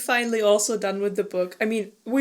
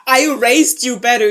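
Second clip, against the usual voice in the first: mock parental scolding; 10 dB louder than usual. Retelling Harald scolding Bjorn.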